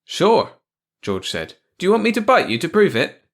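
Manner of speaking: high, loud retort; eager mouse. A narrator's reading. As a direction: mouse voice pitched well up.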